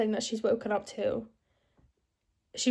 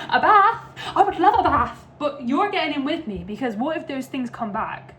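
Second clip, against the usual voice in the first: voicing Georgie; 4 semitones higher, 4 dB louder than usual. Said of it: "And she said".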